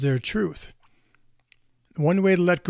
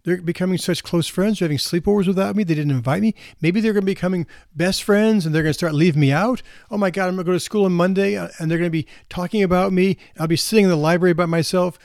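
higher, quickening anxious inner monologue; mounting mock worry in a higher pitch; spiralling worry; 4 semitones higher, 3 dB louder than usual. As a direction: act out a girl's thoughts running away with her. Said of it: "And then they think".

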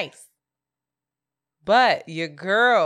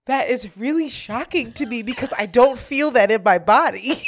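higher-pitched mock astonishment; earnest sleepy shock; 4 semitones higher, 4 dB louder than usual. Imitating a friend denying she snores, mildly shocked. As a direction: imitate a half-asleep sleeper solemnly protesting. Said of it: "like, half still asleep".

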